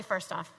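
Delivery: "first off" with the weight on "first", falling; stress on first. Shown as a demonstration. Coach showing the class how to say "first off", stressing first. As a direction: lean on "first" then drop. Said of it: "I'll show you how to say".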